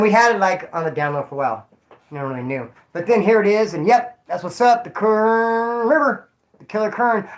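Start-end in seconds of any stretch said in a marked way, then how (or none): 4.8-7.3 dramatic announcer. Pretend.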